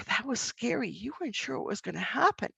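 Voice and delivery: quiet, understanding reflection; hushed comforting tone; empathetic. Shown as a demonstration.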